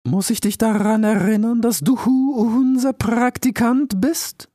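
put-on solemn, careful old owl; wise old owl. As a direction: weigh each word like a cautious sage. Owl rebukes.

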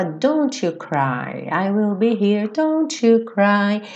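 slow, drawn-out soothing mother; sing-song comfort for a child, long and slow; a mother gently drawing out each word; maternal. Acted. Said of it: "Ela fala com um tom maternal".

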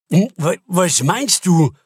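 slowed, words round a mouthful of food; mouth full. Acted. Finance chief asks the CEO while chewing, mouth full. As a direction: talk through a bite of soup. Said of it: "fragte Stalder mit vollem Mund".

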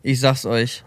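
a comic low motivational growl; mock deep voice. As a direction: echo the slogan in a fake deep voice. Mock-deep echo of motivation quote.

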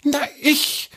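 high, sly snake voice; a small snake answering from below; little snake. A narrator's reading.

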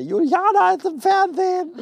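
high, laughing exclamation; laughing in disbelief. Real, not acted. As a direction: laugh it out, amazed. Staunt, Freundin im Fernsehen. (lachend und ungläubig)

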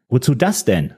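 puzzled question; baffled. Acted. Man asks the assistant, puzzled. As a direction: ask it, thrown. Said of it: "fragte ich verdutzt".

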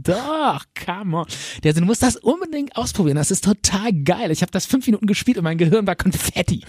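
high, eager urging; old friend pressing the game on him; pushy excited buddy. Retold or imitated. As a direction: talk him into it with a grin.

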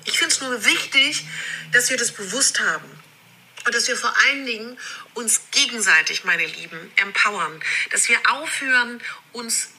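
re-recorded video audio; low quality stream. Real, not acted. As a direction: sounds played off a phone video. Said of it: "die ich wiederum hier wieder nochmal aufnehme".

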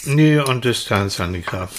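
talking with a mouth full of waffle. Real, not acted. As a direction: speak round a bite of food. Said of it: "Mit vollem Mund".

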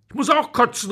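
put-on high childish protest; child calling out. Louis protests to Paola, high childish voice. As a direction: cry out like a jealous little boy. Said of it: "rief Louis".

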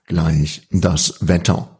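slow, drawn-out radio announcer; radio host voice. Retold or imitated. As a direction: announce the weather like a DJ. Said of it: "wo man dann so sagt".

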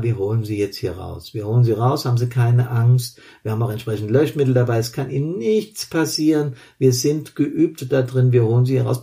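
calm the victim steadily; calm reassuring rescuer. Acted. Firefighter calms trapped victim.

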